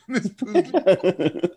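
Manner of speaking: slow, high, stretched Poogie; drawn-out name. Pretend. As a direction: savor the name slowly.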